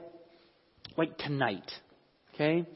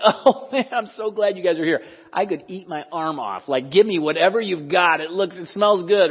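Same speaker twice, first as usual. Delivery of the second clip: hammed-up hungry gush, louder at the start; ravenous eager; 3 dB louder than usual. Preacher imagining Jesus greeting disciples with food, hammed-up hunger. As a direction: play a starving man grabbing food. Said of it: "Jesus does not say".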